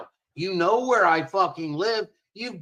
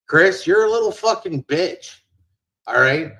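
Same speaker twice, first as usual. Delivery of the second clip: angry loud insult; 6 dB louder than usual. Real, not acted. Insulting Chris on the platform.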